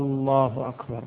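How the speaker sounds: آلله with the opening hamza drawn long like a question; questioning آلله أكبر; stretched hamza. Shown as a demonstration. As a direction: lengthen the first vowel of الله. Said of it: "لا إن مد همزة الله".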